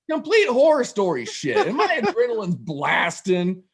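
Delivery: usual speaking voice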